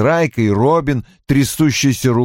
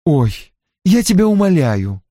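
higher-pitched dismissive exclamation; strained scoff; 7 semitones higher than usual. A narrator's reading. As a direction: scoff at the very idea. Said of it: "воскликнула Анна с коротким натянутым смешком". (насмешливое восклицание)

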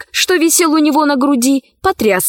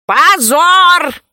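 higher, drawn-out cry of condemnation; shouted outcry; 6 semitones higher, 4 dB louder than usual. A narrator's reading. Someone among the judges condemns the accused, shouting. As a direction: cry it out from the crowd. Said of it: "крикнул кто-то из вкушецов".

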